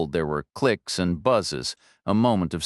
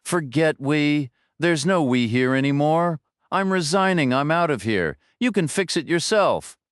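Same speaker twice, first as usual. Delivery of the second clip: angry resignation; 7 semitones higher than usual. A narrator's reading. Director quits in anger.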